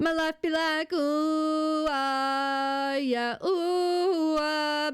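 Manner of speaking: light squeaky voice cracks; voice cracking. Pretend. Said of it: "it's kind of fun to make your voice crack".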